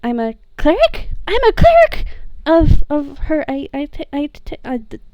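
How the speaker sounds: halting, stuttered, rising happy tears; stuttering teary excitement; stammering joy. Acted. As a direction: trip over words with emotion. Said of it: "and he says".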